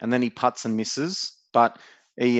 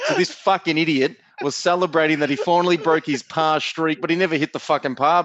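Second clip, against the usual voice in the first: higher and louder, relishing the punchline; gleeful punchline; 5 semitones higher, 3 dB louder than usual. Real, not acted. Host telling Brett the punchline, gleefully mocking Corey. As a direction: savour the payoff, laughing at him.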